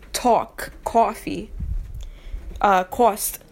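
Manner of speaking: "talk", "coffee", "cost" with a drawn-out aw vowel; accented aw vowel in "talk", "coffee", "cost"; aw sound. Shown as a demonstration. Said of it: "words that have that aw kind of sound".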